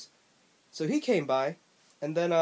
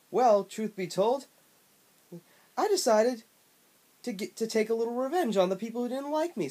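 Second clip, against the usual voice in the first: smug, brash and pitched way up; obnoxious Bubsy voice; 4 semitones higher than usual. Acted. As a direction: ham up an obnoxious cartoon cat. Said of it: "had the most obnoxious voice I've ever heard".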